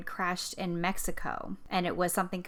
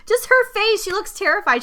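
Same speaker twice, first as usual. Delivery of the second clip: laughing; 13 semitones higher, 8 dB louder than usual. Real, not acted. Still laughing about her face.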